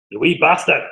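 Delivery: a light Scottish accent on a mock insult; lightly voiced Scottish curse. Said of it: "That's my Scottish accent".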